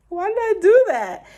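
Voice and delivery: high, loud laughing self-scold; rueful laughing question; laughing at herself. Real, not acted. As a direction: laugh at your own bad choice. Laughing at her own mistake.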